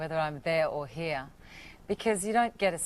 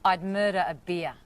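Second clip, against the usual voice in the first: Australian accent demo; 3 dB louder than usual. Shown as a demonstration. Actor teaching the host a phrase to learn, Australian accent. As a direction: model a natural Australian accent. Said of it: "the phrase that you have to learn".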